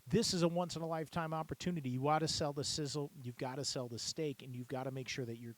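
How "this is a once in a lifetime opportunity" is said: higher, eager selling voice; auctioneer sales pitch. Shown as a demonstration. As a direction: sell the sizzle to the crowd. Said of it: "marketing phrases".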